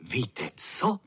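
plain reading voice

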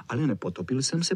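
ordinary delivery

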